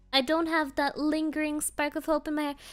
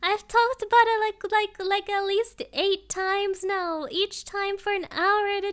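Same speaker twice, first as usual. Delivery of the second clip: higher, louder, slow whiny begging through laughs; mock pleading; 5 semitones higher, 4 dB louder than usual. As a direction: beg Gonji to stop, half laughing. Begging chat to stop baiting.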